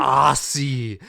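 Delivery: "Aussie" with a drawn-out hissed S, not Z; American pronunciation. Retold or imitated. Mocking how Americans say it, "Aussie" with hissed S. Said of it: "how Americans fucking say Aussie".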